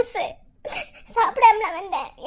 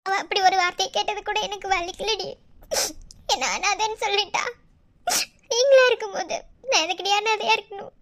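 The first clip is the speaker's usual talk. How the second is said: hurt, crying complaint; tearful. Acted. Orphan girl confiding in friends, tearful hurt. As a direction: speak through held-back sobs. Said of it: "இப்ப எதுக்கு அழுதுட்டு இருக்க?".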